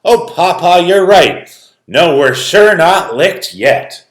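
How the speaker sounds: put-on high, loud brave child voice; a hint of a brave girl rallying; courageous girl. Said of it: "courageously crept".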